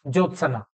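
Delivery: ज्योत्सना, careful teacher's model; clear model word. Shown as a demonstration. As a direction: spell out ज्योत्सना carefully for students. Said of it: "बस ये याद रखें आप".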